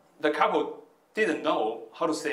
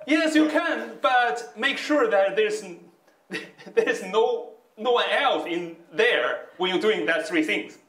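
words bubbling with laughter, pitched higher; laughing while quoting; 7 semitones higher, 4 dB louder than usual. Retold or imitated. Retelling the information lady's reply, laughing through it. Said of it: "The lady is laughing and say".

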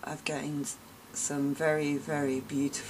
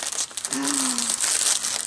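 loud, high voiced gasp; big gasp of delighted surprise; amazed gasp; 8 semitones higher, 6 dB louder than usual. Real, not acted. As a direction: gasp loudly in astonishment. Amazed at bunch of napkins.

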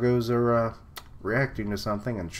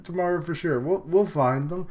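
higher, louder eager mimicry; mock eager resolve; 8 semitones higher, 4 dB louder than usual. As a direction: act out a hammed-up pep talk. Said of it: "it's like".

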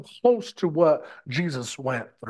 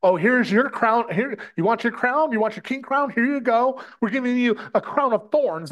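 mocking taunt; 4 semitones higher than usual. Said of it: "again, in mockery".

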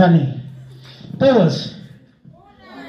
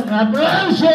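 shouting; 6 semitones higher, slower than usual. Real, not acted. Host calls for applause.

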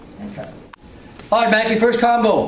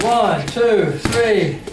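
slow count; much slower than usual. Shown as a demonstration. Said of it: "Slow first".

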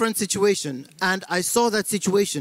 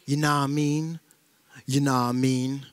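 American accent; 4 semitones lower than usual. Shown as a demonstration. Comic showing how easy it is, in a low American accent. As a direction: put on a lazy American accent, pitched down. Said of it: "It's easy with the American accent".

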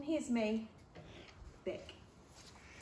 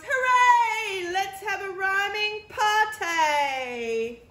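high, loud overjoyed cheer; happy girl cheering her family; excited; 9 semitones higher, 12 dB louder, slower than usual. Acted. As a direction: burst out with joy. Beck overjoyed again.

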